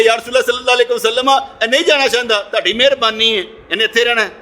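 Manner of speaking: high, confident appeal to the Prophet; retold spiritual elation. Preacher appeals for his friend to stay, retold elated pleading. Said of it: "بے ست کی حالت بتا رہا ہوں".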